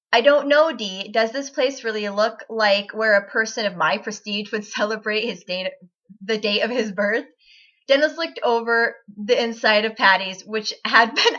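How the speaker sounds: reading fan fiction aloud, lightly voicing the characters; story reading. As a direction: read it like an amused storyteller.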